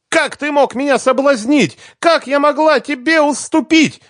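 very high, loud despairing cry; desperate cry. Acted. Svetlana cries out in despair at the bass guitarist. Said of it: "крикнула она с неподдельным отчаянием в голосе".

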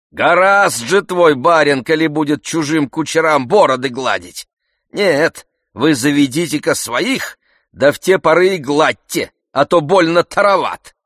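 loud, high scolding servant; indignant old servant. Acted. Zakhar rebuking the coachman, loud and indignant. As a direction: tell the coachman off hotly.

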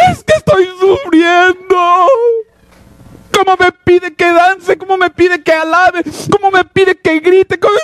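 high-pitched tearful mock wail; mock whining. Complainer protesting being asked to praise, high mock-crying whine. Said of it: "empieza a chillar".

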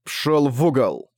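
slow, eerie, otherworldly command. A narrator's reading. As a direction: cut him off in a ghostly voice. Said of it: "перебил его потусторонним голосом мрак".

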